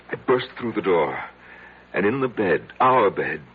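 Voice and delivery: mounting shock in the telling; rising agitation. Acted. Recounts bursting into bedroom.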